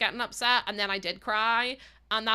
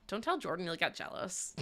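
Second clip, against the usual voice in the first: softer, hushed teasing aside; hushed secret; 4 semitones lower, 8 dB quieter than usual. Pretend. Streamer telling chatter to keep flirting secret, hushed.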